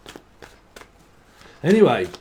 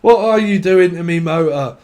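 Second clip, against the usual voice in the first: mock yell; 3 semitones higher, 6 dB louder than usual. Yelling at mate in car.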